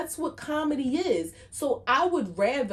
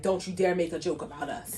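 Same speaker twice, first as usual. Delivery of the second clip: mock-snooty, pitched lower; 4 semitones lower than usual. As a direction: put on a touch of haughty disapproval.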